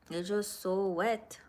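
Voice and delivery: whispered; hushed whisper to the viewers. Real, not acted. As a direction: drop to a breathy whisper. Describing the dew.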